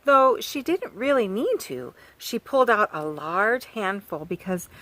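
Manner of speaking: lively storybook reading voice; reading to children. Acted. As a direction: read it like a picture book for small kids. Reads picture book to children.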